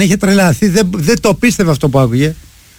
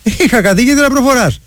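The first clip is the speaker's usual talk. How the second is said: retold message; 6 semitones higher than usual. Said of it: "Και του στέλνω μήνυμα εγώ".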